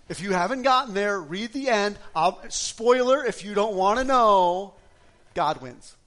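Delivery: loud, slow build to God wins; rally the congregation, drawn out; preaching at full force. Real, not acted.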